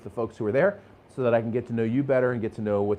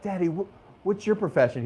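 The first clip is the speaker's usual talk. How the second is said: higher, lightly voiced little daughter; little girl voice; 6 semitones higher than usual. A salesman imitates his daughter asking his job, higher childlike voice. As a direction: ask it like a curious small child. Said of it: "and she's like".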